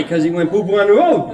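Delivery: giggling as you repeat the punchline; laughing quote. Retold or imitated. Mother repeating her son's answer, laughing.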